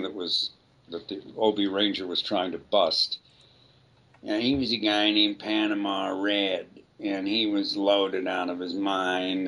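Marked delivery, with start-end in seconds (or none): 4.2-9.5 lazy, out-of-it stoner voice. Shown as a demonstration. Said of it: "he's kinda sounded like this".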